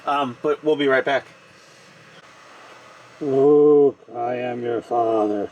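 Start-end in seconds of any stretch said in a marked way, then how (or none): 3.2-5.5 masked villain voice. Pretend. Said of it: "famous villain line, timbre changed".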